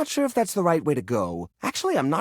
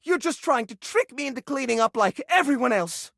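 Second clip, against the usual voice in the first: sharp gasp, then a high, triumphant accusation; 5 semitones higher than usual. Acted. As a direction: catch them out with a gasp. Accusing the visitor of trickery.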